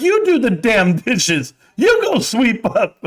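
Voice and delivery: high, slow mock wife orders; bossy wife. Wife ordering husband to do chores, high and slow. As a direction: give slow commands like his wife. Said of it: "She's like".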